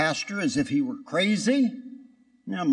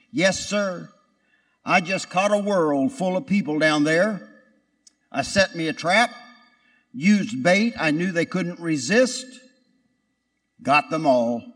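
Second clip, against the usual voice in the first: gloating. Retold or imitated. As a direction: brag like you won. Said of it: "he was gloating and boasting".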